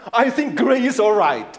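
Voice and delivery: mock mother deciding; imitating a mom. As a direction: settle it firmly like a parent. Mother settles the color.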